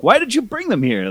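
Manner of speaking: high, loud indignant demand; hammed-up leader scolding; squeaky outraged question; mock angry boss. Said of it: "He's like".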